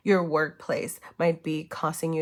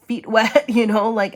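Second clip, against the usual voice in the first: laughing; 4 semitones higher, 9 dB louder than usual. Real, not acted. Laughs mid-phrase.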